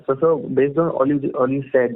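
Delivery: speaking up clearly after the complaint. Real, not acted. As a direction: raise the voice so the line hears. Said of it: "your voice is very low".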